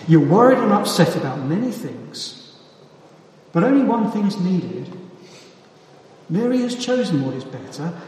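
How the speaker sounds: scolding Martha harshly, the wrong way. Shown as a demonstration. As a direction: snap it at her like an impatient scold. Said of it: "It would never have been this".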